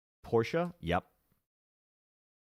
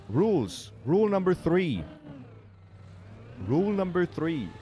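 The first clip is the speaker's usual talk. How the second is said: loud announcing; 9 semitones higher, 5 dB louder than usual. Real, not acted. Proving chat wrong by reading the rules, loud proclamation. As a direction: shout it much higher and louder.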